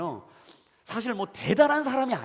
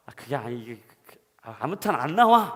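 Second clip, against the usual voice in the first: flustered; 5 semitones lower, 7 dB louder than usual. Retold or imitated. Flustered father to son.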